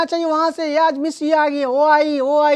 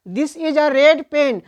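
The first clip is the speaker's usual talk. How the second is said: slow, word-by-word example sentence; slow classroom read-aloud; much slower than usual. Shown as a demonstration. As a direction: spell the example out slowly for the class. Teacher reads example sentence slowly.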